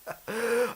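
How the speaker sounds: high scoffing laugh; short acted burst of scornful laughter; dismissive villain chuckle. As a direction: laugh it off as a disbelieving warlord. Daimyo dismisses the phantom samurai.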